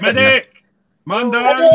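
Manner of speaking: loud, high call for a medic; mock battlefield shout. Calling out to a friend.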